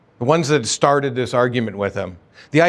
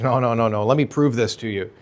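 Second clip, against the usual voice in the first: Jesus rebuking; 5 semitones higher than usual. Acted. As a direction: confront the hypocrites, rising as you go. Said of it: "Jesus is like".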